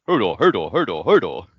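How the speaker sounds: a hint of Hodor, each one alike; lightly mimicked Hodor. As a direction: repeat the name in a bouncing chant. Mimics Hodor's one-word chapter.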